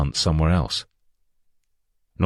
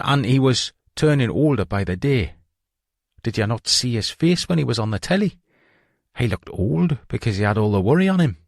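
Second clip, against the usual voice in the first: a Sunderland man explaining himself, half defensive; Geordie hoaxer; 6 semitones higher than usual. Retold or imitated. Humble telling detectives about George Oldfield, earnest Geordie.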